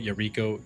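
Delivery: "Yariko" as yuh-REE-koh; "Yariko" with a weak first vowel and long REE; shifting name pronunciation. Shown as a demonstration. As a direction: stress the middle of "Yariko". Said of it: "change the way I pronounce your, your name".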